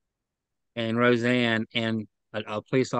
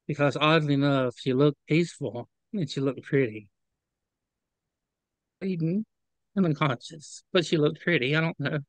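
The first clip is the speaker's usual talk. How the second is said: real near-tears voice, higher on the last words; holding back tears; 4 semitones higher than usual. Real, not acted. Witness recalling her injured friend looking pretty, holding back tears. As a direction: fight back tears as you speak, halting with long pauses. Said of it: "I'm trying not to cry".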